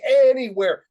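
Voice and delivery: high, full-voiced yell; loud gleeful class shout; kids' shouting. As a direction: holler it like excited kindergartners. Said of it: "the kids are shouting".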